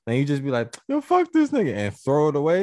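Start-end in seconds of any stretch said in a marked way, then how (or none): 0.9-1.7 high-pitched mock indignation; mock dismissive outburst. Acting out someone tossing a gift, mock dismissive. Imitates person rejecting a gift.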